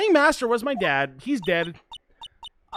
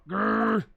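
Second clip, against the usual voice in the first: tiger growl. Acted. Voices the tiger backing down.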